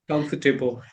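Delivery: "Comfortable" reduced to KUMF-tuh-bul; short, weak middle in "Comfortable"; three-syllable COMFORTABLE. Shown as a demonstration. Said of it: "they have three syllables".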